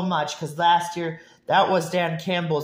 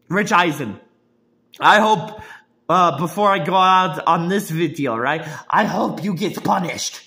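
louder call-out; 2 semitones higher, 5 dB louder than usual. Real, not acted. Calling out Rich Eisen.

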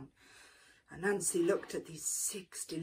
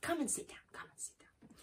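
fading invitation; 8 semitones higher, 9 dB quieter, much faster than usual. Acted.

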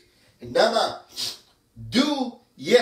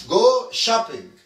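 slow model phrase; 3 semitones higher, 5 dB louder, much slower than usual. Shown as a demonstration. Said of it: "بنقولها".

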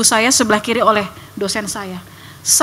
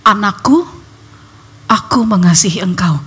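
tender voice; 4 semitones lower than usual. Retold or imitated. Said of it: "Dia bilang gini".

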